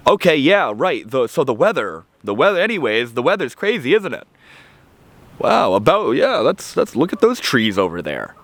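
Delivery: high, flustered small talk; a hammed-up nervous dodge; awkward deflection. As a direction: scramble to change the subject. Acted awkward subject change.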